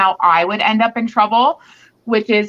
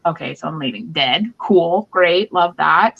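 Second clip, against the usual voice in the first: deadpan sarcasm; 5 semitones lower than usual. Retold or imitated. Sarcastic reply to death threat.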